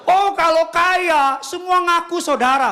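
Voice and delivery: high, slow, loud dramatic preaching; milk every word with feeling; heartfelt declamation. Acted. Preacher dramatizing to the congregation, loud and emotional. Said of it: "Kayaknya kayak penghayatan ngomongnya gitu".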